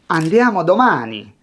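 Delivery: clear, decisive statement; crisp model answer without hesitation; short and direct. Shown as a demonstration. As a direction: say it cleanly in one go. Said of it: "Short, direct, clear".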